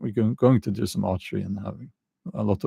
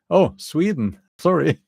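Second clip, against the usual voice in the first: higher-pitched mock surprise, then apology; surprised submarine captain; 7 semitones higher, 4 dB louder than usual. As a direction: play the captain caught out, sheepishly apologising.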